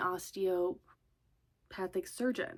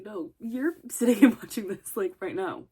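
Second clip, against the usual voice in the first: mock bossy insistence; 9 dB louder than usual. Bossing friend into watching show.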